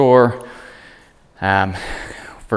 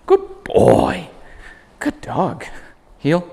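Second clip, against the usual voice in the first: high, singsong heel and praise; chirpy encouraging handler voice; upbeat dog talk; 9 semitones higher, much slower than usual. Shown as a demonstration. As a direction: keep him engaged, way up high. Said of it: "So it looks like".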